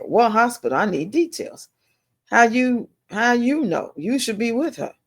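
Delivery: urgent worry. Retold or imitated. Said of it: "So I said".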